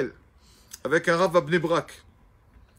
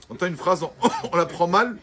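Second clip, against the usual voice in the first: laughing; 5 dB louder than usual. Real, not acted. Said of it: "laughs while speaking".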